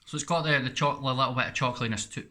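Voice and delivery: talking through a mouthful of peanut butter; words muffled by sticky peanut butter; mouth full of peanut butter. Real, not acted. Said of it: "My mouth's all full of this peanut butter".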